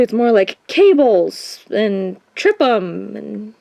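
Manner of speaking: normal talking voice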